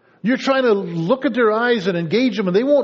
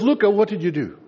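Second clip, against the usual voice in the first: questioning mom; 3 semitones higher than usual. Retold or imitated. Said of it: "And Mom says".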